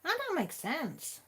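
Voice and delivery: high, confused mock muttering; a light hint of bafflement, voiced high; puzzled inner voice. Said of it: "And I thought".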